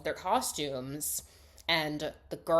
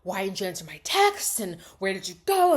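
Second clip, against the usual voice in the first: flustered; 3 semitones higher, 6 dB louder than usual. Retold or imitated. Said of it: "so flustered".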